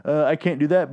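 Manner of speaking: high-pitched pedantic fanboy voice; convention nerd. Acted. Fan at a convention querying continuity, nerdy and pedantic. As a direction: nitpick haltingly like an obsessed fan. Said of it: "a guy that goes to a convention".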